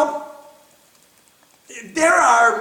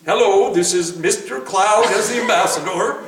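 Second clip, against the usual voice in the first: cloud as a playful news reporter, laughing; mock live reporter. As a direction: announce it like a hammed-up live report. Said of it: "He was a reporter".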